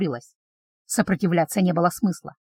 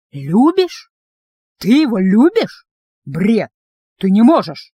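indignant outburst; 5 dB louder, slower than usual. Acted. Jealous vampire confronts heroine.

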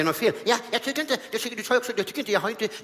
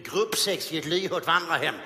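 Sten Broman voice. Retold or imitated. Comedian as Sten Broman mocking the orchestra, haughty. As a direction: look down on the band.

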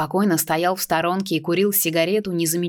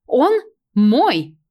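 possessive claim; 7 semitones higher, 6 dB louder than usual. Acted. Stranger claims the thief.

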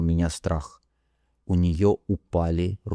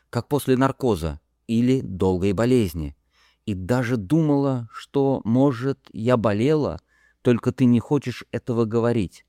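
lightly voiced young woman, higher, earnest and bewildered; a gently pitched-up woman's voice, confiding; Harey confessing; 4 semitones higher than usual. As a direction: recall it all, lost and searching.

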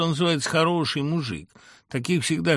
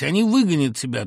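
raised mother's voice; 4 semitones higher, 6 dB louder than usual. Acted. Mother keeps shouting on phone.

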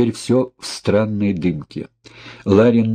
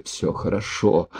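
weak, dying reassurance; 6 dB quieter than usual. A narrator's reading. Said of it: "попытался улыбнуться он".

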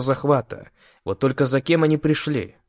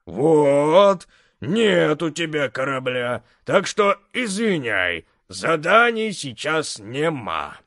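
mocking refusal; 3 semitones higher, slower than usual. Mocking refusal by the big man.

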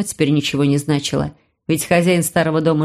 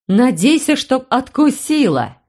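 higher, heated retort, slowing on the end; sharp objection; 6 semitones higher, slower than usual. A narrator's reading. Aini objecting about the creep, heated retort. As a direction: snap back in protest, drawn out. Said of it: "возразила Айни".

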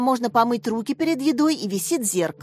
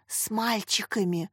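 whisper; 5 dB quieter, slower than usual. Acted. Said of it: "шёпотом пояснила Наташа".

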